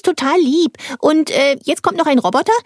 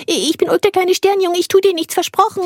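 gentle coaxing; 5 semitones higher than usual. Acted. Ulk gently calms the frightened mouse. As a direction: reassure a timid mouse. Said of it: "ich kann doch Tiere sprechen hören".

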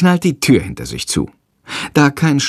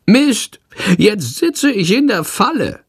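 high, sharp creature curse; high bird voice swearing at the trap; cursing creature; 11 semitones higher than usual. A narrator's reading. Bird Schandor stuck in the room, high cursing voice. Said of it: "flucht er".

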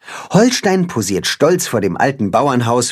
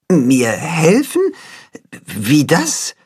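puzzled, slowed question; confused; 3 semitones higher, slower than usual. A narrator's reading. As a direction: still trying to understand. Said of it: "ziemlich verwirrt von all dem".

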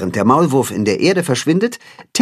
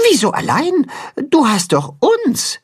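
cheering bird; 14 semitones higher than usual. A narrator's reading. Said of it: "sagt Timme".

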